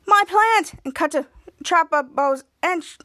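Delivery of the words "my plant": higher, louder exclamation; acted outcry. Schwartz cries out over his rock plant, acted outcry. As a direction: cry it out, mildly hammed-up.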